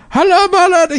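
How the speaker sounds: high, hammed-up Arab accent; squeaky mock Arab accent greeting. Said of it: "doing, like, a Arab voice".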